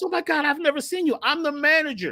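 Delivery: mock boo-hooing, crying through the words. Retelling how a store manager recognized him, imitating a woman sobbing. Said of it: "And she's boo-hooing".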